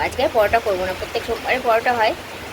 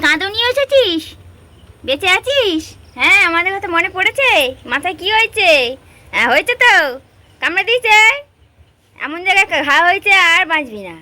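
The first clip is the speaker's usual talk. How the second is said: much higher, cooing chatter to the cats; pet talk; 7 semitones higher, 4 dB louder than usual. Real, not acted. Greeting the stray cats back home, high cooing pet talk. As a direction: coo at a returning pet, half scolding.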